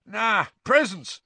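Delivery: put-on high, slow drowsy boy voice; a hint of a sleepy boy; sleepy teen voice. A narrator's reading.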